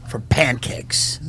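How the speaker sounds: hushed dreamy whisper; a whispered treat. Pretend. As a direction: breathe the words softly. Dreamy whisper in mock speech.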